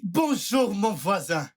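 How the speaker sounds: bright rehearsed greeting; practised greeting. Acted. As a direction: greet the neighbour eagerly, practising. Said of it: "je m'exerce comme un saluier".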